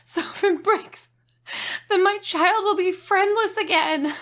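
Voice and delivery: fake-sob the sad ending; mock tearful. Reading the review's ending as a mock-tearful parent.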